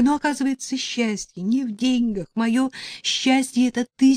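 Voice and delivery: high, begging and tearful; woman begging her lover on the phone, pitched high; pleading. Acted. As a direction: plead with him, voice lifted and desperate. Heroine begs her lover on phone.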